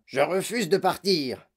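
slow, put-on old-man protest; crying refusal. A narrator's reading. Grandfather refusing to leave bed, a moderate cry. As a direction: declare refusal in a drawn-out, put-on voice. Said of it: "sans se soucier de leurs cris".

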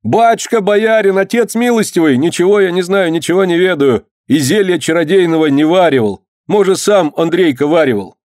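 high pleading wail; wailing plea. Acted. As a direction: beg the boyar, wailing. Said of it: "И завопил".

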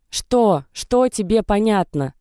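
high sharp outcry, slowed on the second question; cry out. A narrator's reading. Dasha cries out at Natasha, high and upset. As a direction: burst out in tears at her friend. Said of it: "вскрикнула Даша".

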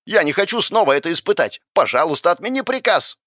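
high, desperate begging; panicked scream. Acted. Lust begging to cancel the order, screaming. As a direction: cry and beg, peaking at the end. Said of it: "закричала похоть".

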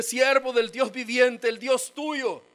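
anxious king asking sadly if God saved him; grieving king calls down to Daniel, sad and slow. Acted. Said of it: "Dice que le decía con voz triste".

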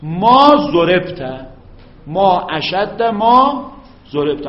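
very slow, each word drawn out; slow dictation. Shown as a demonstration. Teacher dictating to students, very slow and clear. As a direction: dictate it slowly for the students to copy. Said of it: "درست شد؟".

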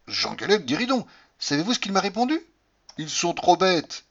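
a hint of a jovial old raconteur; amused anecdote. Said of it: "le père Sardou racontait une histoire bien amusante".

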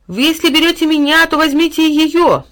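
high, loud, slowing plea; desperate cry. A narrator's reading. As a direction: cry out while being dragged away. Boy struggling against Time. (отчаянный крик, высоко и громко)

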